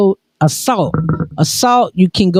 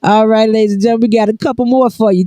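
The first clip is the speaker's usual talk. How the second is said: hype announcer; 4 semitones higher, faster than usual. Acted. Host hype.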